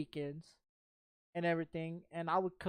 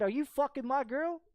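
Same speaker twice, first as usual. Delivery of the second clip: retold angry confrontation; 6 semitones higher than usual. Confronting the man in car.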